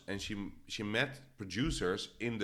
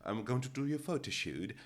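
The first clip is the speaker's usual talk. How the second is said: softer, half-hearted posh imitation; badly faked posh accent; 5 dB quieter than usual. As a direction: have a go at sounding posh, and not quite manage. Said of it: "I cannot talk posh".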